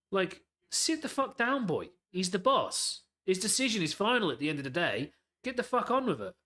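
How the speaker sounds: exasperated fan yelling at a sulking star; angry rant. Real, not acted. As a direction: tell him off like a furious fan. Ranting at Salah's hissy fit.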